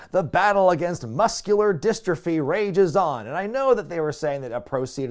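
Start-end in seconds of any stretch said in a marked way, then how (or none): 0.1-3.3 lightly mimicked promo announcer, a bit higher; mock promo narrator read; promo voiceover guy. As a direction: give it a touch of voiceover hype. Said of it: "the voiceover guy says".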